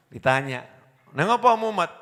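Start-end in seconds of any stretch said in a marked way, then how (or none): 1.1-1.9 lightly voiced friend asking, higher and brighter; a hint of a curious mate. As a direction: ask like a nosy pal.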